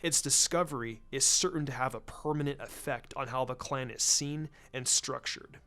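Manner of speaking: a hint of a laid-back strategist; easygoing, thinking aloud; lightly voiced Shikaku. Shikaku offering help to Hiashi, lightly voiced and casual.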